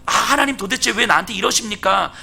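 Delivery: mildly acted protest to God; lightly imitated remonstrance; protesting Job. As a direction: complain upward, as a preacher voicing Job. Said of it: "라고 막 항변하고 있는 욥에게".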